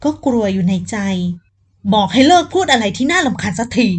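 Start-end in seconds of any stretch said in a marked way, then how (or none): 1.4-3.9 angry order. Acted. Man grabs her arm angrily.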